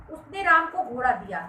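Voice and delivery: घोड़ा given the weight of the sentence; stress on घोड़ा. Shown as a demonstration. Teacher explaining what was given, stress on घोड़ा. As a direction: lean on घोड़ा near the end. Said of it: "घोड़ा ही दिया".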